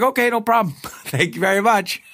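high, mock-cheerful acceptance with a laugh; retold eager agreement. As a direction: gleefully take the offer and run. Acts out delighted acceptance, laughing.

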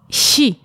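"si" with the tongue in the middle, between chy and si; German ich sound. Shown as a demonstration. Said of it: "świadomie ułożysz język po środku". (niemieckie "si" z językiem po środku)

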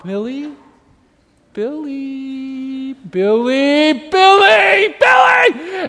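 calls rising into a frantic high shout; calling lost child. Acted. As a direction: start drawn-out, escalate to panicked yelling. Parent calling lost child in store.

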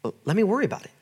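softened, gentle voicing of God; God reassuring. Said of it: "God's just saying".

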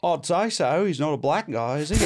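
Cockney gone Australian; wobbly put-on Australian; accidental Australian. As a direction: answer in a botched Australian accent. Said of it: "I'm still doing Australian".

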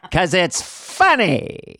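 slow, drawn-out forties announcer; old announcer voice. Retold or imitated. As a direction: stretch funny like a Mae West announcer. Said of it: "a bit of Mae West almost ... forties type announcer voice".

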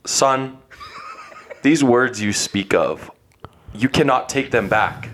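slow, grave, formal father; Professor X. Acted. Dad warning hurtful son, slow solemn professor voice. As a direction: pronounce each phrase with solemn pauses. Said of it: "I pictured Professor X from X-Men".

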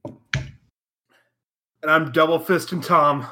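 slow, drawn-out shouted introduction; grand announcer intro. Acted. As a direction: stretch every word like a ring announcer. Host introduces himself grandly.

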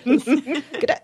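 put-on a laughing try at an English accent that slips Australian; botched English accent. Host fails an English accent for a UK listener, botched English accent. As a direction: toss off a bad English accent through a chuckle. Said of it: "No, that's, see, that's Australian".

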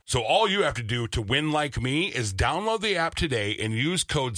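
upbeat sponsor read in the host's voice; lively, friendly ad read. Acted. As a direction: sell it like a podcast ad. Host reads sponsor ad.

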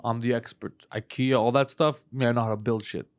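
low, quiet braggy voice; low bragging. Retold or imitated. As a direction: boast it lazily. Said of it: "He was like".

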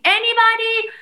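high, loud cries for help from a cell; panicked shout for help; desperate screaming. Retold or imitated. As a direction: yell for anyone to hear you. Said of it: "I'm screaming".

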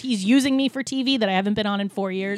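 loud, mocking address to the haters; sarcastic rant. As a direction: throw it back at the critics, loud and sneering. Sarcastic rant at online critics.

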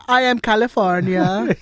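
put-on a deliberately terrible French accent, a bit slow; mock French accent for a laugh; bad French accent. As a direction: ham up a clumsy French accent. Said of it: "the worst French accent ever".

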